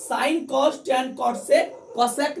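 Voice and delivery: slowing right down on sec, cosec नहीं होगा; slow emphatic listing. Shown as a demonstration. Teacher stressing the order to students, slowly and deliberately. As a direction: spell out each ratio slowly, landing hard on the last. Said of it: "ऐसे सीधा में नहीं दिया होगा".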